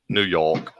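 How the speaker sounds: "New York" with R said; "New York" said plainly, R sounded. Shown as a demonstration. Man showing how New Yorkers say New York, plain. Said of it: "don't know how to use the letter R".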